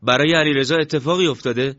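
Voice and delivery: anxious question with a touch of breaking; broken voice. Acted. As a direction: ask fearfully, voice lifted.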